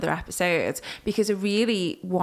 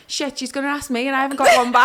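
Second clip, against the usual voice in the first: panicked inner thought; 6 semitones higher, 5 dB louder, much faster than usual. Retold or imitated. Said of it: "I'm thinking".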